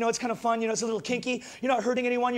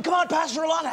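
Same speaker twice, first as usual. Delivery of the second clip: joking heckle; 4 semitones higher than usual. Retold or imitated. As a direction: tease her like a cheeky mate. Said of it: "So I'm joking with Victoria".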